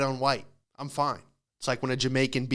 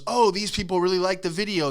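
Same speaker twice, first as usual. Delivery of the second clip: higher-pitched naive delight; lightly voiced clueless app, pitched up; app's naive voice; 5 semitones higher than usual. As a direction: pipe it up as if pleasantly fooled. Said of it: "Instagram or TikTok goes".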